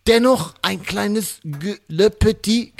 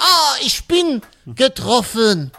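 hammed-up pain; 7 semitones higher than usual. Prince hit by police bullets.

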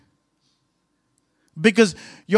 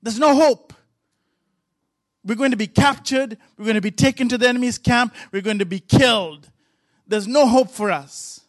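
higher, anxious pleading as the frightened servant; panicked servant; 3 semitones higher than usual. Retold or imitated. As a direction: voice the servant losing hope, pitched up. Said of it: "and he says".

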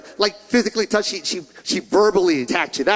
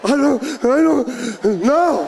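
put-on cowed kid; 2 semitones higher, much slower than usual. Kid answering scolding mom.

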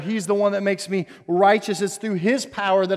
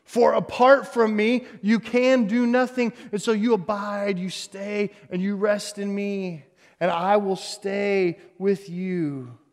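tender Jesus voice. Acted. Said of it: "is telling the disciples".

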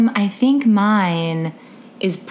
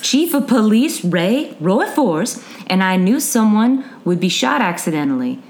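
put-on Southern accent; 2 semitones lower than usual. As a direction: read it with a gentle Southern accent. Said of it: "bad Southern accents I did".

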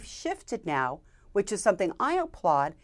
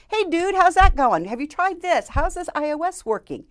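casual buddy voice; 9 semitones higher, 7 dB louder than usual. Retold or imitated. Retelling a casual friend's question.

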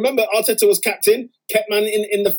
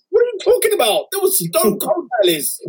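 outraged disbelief; 7 semitones higher than usual. Real, not acted. Outraged at pundit's verdict.

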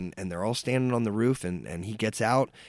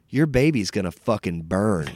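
put-on old lady's curse, delivered at near-usual pitch; matter-of-fact menace, a touch louder; mild retold threat; 2 semitones lower, 5 dB louder than usual. Sweet old lady to pregnant waitress, mildly menacing.

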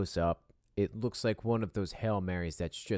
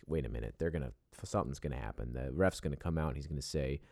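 anxious hush; 6 semitones lower, 5 dB quieter, faster than usual. Retold or imitated. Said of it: "You're like".

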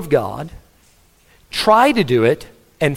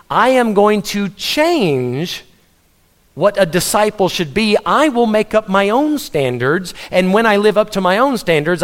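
mock self-importance; 4 semitones higher than usual. Voicing a self-made disciple defying Jesus.

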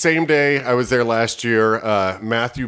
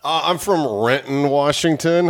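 accidental southern twang, pitched up; a touch of southern accent; 4 semitones higher than usual. Real, not acted. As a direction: slip lightly into a southern accent. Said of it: "I got a southern accent".

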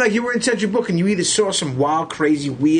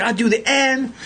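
excited fan; 6 semitones higher than usual. Retold or imitated. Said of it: "this guy was a fan".

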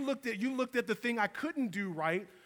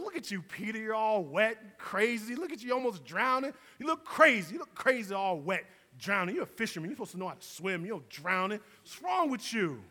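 mocking disciples. Disciples jeering at Peter pulled back in, mildly mocking. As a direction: rib him like a boatful of scoffing fishermen.

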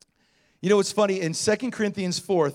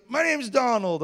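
lightly voiced higher character; a hint of an odd, pitched-up voice; imitated eccentric man; 5 semitones higher than usual. Homeless man introducing himself, lightly imitated, higher.

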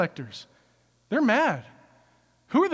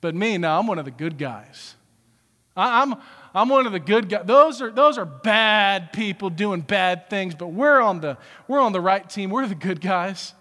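self-righteous; 5 dB louder than usual. Retold or imitated. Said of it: "we're so external that we're like".

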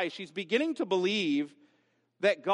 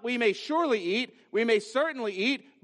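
higher, stressed "surely" and "certainly"; emphatic; 4 semitones higher than usual. Shown as a demonstration. Preacher giving what Eve didn't say, emphatic "surely" and "certainly". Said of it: "She's gonna drop the emphasis".

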